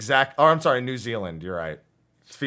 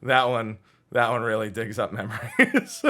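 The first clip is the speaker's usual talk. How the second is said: words through a laugh. Real, not acted. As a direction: laugh while saying it. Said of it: "far laugh".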